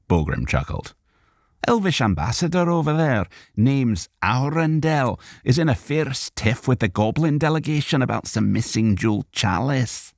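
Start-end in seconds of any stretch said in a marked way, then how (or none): 1.7-10.1 gossiping dwarf. A narrator's reading. Borgrim gossiping.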